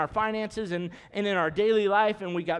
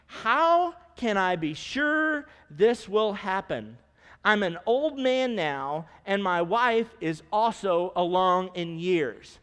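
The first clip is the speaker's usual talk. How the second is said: scripture reading; slower than usual. Acted. Reading Zechariah's doubting words.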